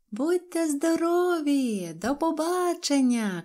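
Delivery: high, drawn-out farewell call; calling out goodbye. A narrator's reading. Girls waving off departing travelers, calling out. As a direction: call it out slowly across a growing distance. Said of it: "кричали малючки".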